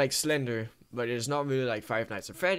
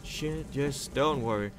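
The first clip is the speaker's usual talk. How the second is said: self-soothing; much slower than usual. Real, not acted. Calming self after scare.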